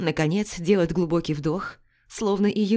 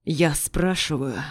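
growling; 3 semitones lower, slower than usual. Acted. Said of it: "голос скатывается к рычащим ноткам".

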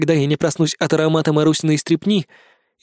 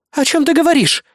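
high indignant question; 10 semitones higher than usual. Acted. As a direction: protest it sharply, high. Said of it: "возмутилась критика".

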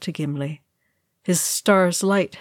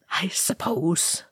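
slow, softer, hesitant murmur; uncomfortable; 5 dB quieter, slower than usual. A narrator's reading. Ori answering praise of his brave death, uncomfortable. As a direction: concede it uneasily, drawn out and half-voiced. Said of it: "Ori said uncomfortably".

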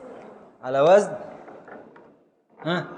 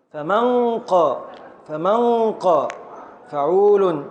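slow scansion; slower than usual. Shown as a demonstration. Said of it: "هذه الألف غير منطوقة".

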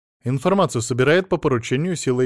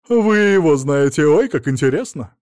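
put-on childlike excited squeal, louder; childish delight; 3 semitones higher, 8 dB louder than usual. A narrator's reading. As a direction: clap your hands like a child. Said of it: "по-детски захлопала в ладоши".

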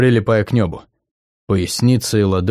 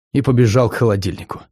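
ordinary delivery

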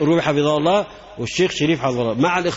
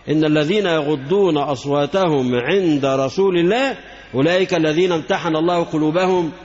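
Quran recitation. Acted. Recites Quran verse in sermon.

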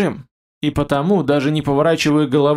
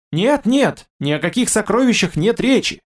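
испуганный вскрик; 6 semitones higher than usual. A narrator's reading. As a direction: blurt it out in panic. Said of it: "Человечек испуганно вскрикнул". (испуганно, высоко и громче)

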